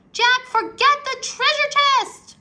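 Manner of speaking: high, loud pleading yell; urgent shout. A narrator's reading. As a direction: yell at him to leave. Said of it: "cried Annie".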